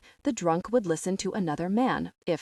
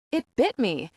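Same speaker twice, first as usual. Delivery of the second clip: put-on mild drunken shout; 4 semitones higher than usual. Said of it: "he shouted to the growing crowd".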